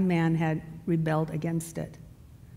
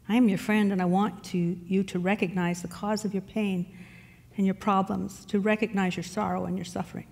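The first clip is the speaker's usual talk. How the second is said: soothing voice. Acted. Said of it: "then spoke in a soothing voice".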